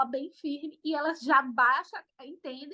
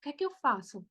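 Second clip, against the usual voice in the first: mock panic; much faster than usual. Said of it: "eu ficava parada assim".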